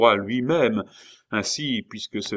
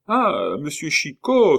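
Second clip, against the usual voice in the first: high, loud cry of recognition; exclaiming; 8 semitones higher, 8 dB louder than usual. A narrator's reading. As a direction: exclaim on recognising an important visitor. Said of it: "s'écria l'officier". (exclamation forte et aiguë)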